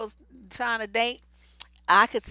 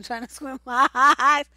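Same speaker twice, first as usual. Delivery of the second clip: louder, laugh breaking into the words; 3 semitones higher, 9 dB louder than usual. Real, not acted. Woman joking about an unattractive date, laughing. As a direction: crack up at your own joke mid-sentence. Laughs at her own joke.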